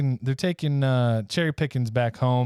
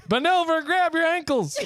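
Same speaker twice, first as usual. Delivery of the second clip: laughing shout. Acted. Duke calls out to the old lady, laughing shout. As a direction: yell it out while cracking up.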